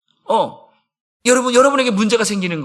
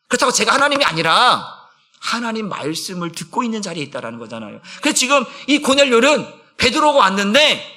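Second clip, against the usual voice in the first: ordinary talk, nothing marked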